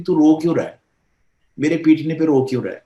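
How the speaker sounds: half-hearted imitation of a mother yelling at her crying child; scolding mother. Doctor imitating a mother who beats her child, mild mock scolding. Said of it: "بعض مائیں بچوں کو اس طرح پیٹ رہی تھی".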